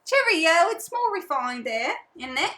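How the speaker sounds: hint of a mock British accent; put-on refined accent. Co-host teasing about Boomerang Europe, mock British accent. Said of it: "what accent is that".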